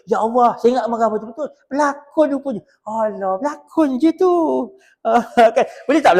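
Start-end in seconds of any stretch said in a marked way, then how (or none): 0.1-2.6 surprised customer. Retold or imitated. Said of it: "pelanggan dia kata".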